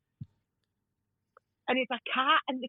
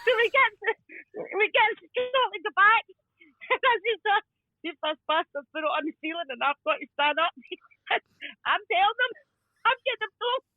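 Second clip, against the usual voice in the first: higher voice breaking into laughs; giggling storytelling; 4 semitones higher than usual. Real, not acted. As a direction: struggle to get the story out through giggles. Laughing as she tells the story.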